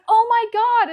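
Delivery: high, loud amazed friend; retold shock. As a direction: act out a friend's stunned exclamation. Friend's retold shock before crying.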